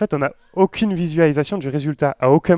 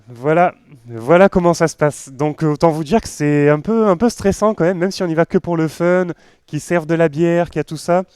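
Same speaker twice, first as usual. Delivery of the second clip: tags: raised voice over music; 2 semitones higher, 6 dB louder than usual. Real, not acted. Still commenting over loud contest video.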